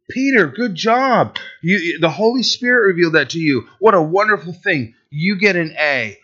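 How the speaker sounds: playful top-marks approval; acted glowing praise. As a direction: hand out praise like a pleased teacher. Acts out praise given to Peter.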